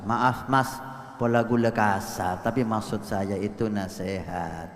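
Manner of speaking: meek apology. Retold or imitated. Wife's meek apology voiced.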